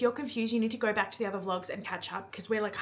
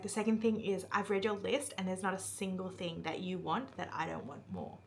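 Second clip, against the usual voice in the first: softly voiced hero; 2 semitones lower, 6 dB quieter than usual. He tells her he wants everything on her list, softly. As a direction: lean in and let it land softly. Climactic romantic line retold.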